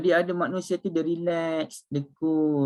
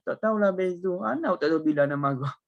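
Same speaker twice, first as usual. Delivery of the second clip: imitating a Kelantanese junior; lightly voiced Kelantan dialect; Kelantanese accent; 4 semitones higher than usual. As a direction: quote him with a Kelantanese lilt. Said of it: "Ya, dia orang Kelantan lah".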